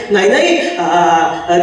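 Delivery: flustered denial. Acted. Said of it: "मास्तर घाबरले".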